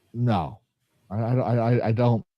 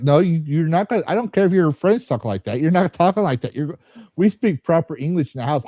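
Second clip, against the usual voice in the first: higher-pitched, insistent mock telling-off; retold parental scolding; 5 semitones higher than usual. Dad telling his son off about slang, retold exasperated scolding. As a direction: lay down the house rule.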